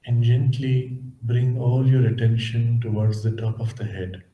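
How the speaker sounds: measured, calm instructions, leaving space between phrases; guided meditation. Acted. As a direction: gently guide listeners inward, unhurried.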